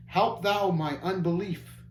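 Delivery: slow, yearning prayer; longing plea. Acted. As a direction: plead slowly from the heart. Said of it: "cried out longingly".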